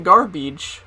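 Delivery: "garbage" with a long ee ending; imitated "garbage" as gar-BEEDGE; odd E sound. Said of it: "she said her E's weirdly".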